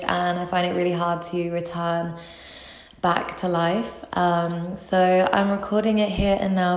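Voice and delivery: echoing bathroom. Real, not acted. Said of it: "if you hear, um, an echo".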